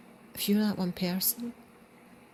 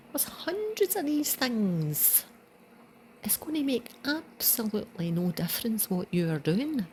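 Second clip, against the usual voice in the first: put-on higher dismissive old man voice; lightly voiced old man, higher; mock old man; 5 semitones higher than usual. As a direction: brush him off like a grumpy old man.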